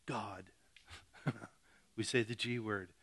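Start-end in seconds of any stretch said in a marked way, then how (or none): 0.1-0.4 a sheepish, hushed little "Hey, God"; mock timid mumble. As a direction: mumble it like you're embarrassed to say it. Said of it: "We kinda go".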